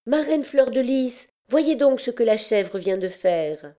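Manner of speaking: put-on high-pitched childlike wonder; admiring exclamation. A narrator's reading. Bérangère shows her godmother the goat's trick, wonderstruck. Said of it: "s'écria tout à coup, en joignant les mains avec admiration".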